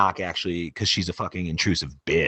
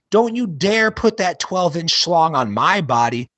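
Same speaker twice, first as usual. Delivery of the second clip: mock shout; 8 semitones higher than usual. Patient waking mid-surgery at his doctors, mock shouting. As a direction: protest high at the surgeons. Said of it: "shout at the doctors".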